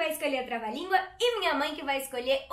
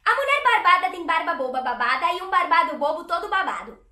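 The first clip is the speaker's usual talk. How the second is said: a hint of Mabel, a touch louder; 2 semitones higher, 8 dB louder than usual. Voice actress doing the twister as Mabel for viewers. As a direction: rattle it off in a lightly voiced Mabel. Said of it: "A Mabel".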